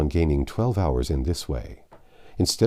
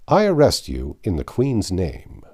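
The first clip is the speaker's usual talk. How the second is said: louder, formal and firm; stern arrest; 5 dB louder than usual. Acted. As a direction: lay down the arrest. Detective arrests Fogg.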